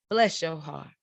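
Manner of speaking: restrained Midwestern "bless your heart". Acted. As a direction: say it understated, like a polite Midwesterner. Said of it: "So Midwest, she said".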